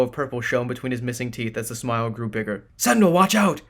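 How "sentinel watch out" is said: high, loud shouted warning; yelled warning. A narrator's reading. Kogar warning the sentinel of flames, shouting. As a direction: yell it to save him. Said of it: "Kogar yelled".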